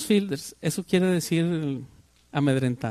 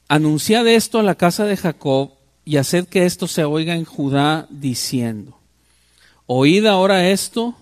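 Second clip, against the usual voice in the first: scripture reading. Acted. Preacher reading Jeremiah to his congregation, declaiming. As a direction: proclaim the prophet's words to the church.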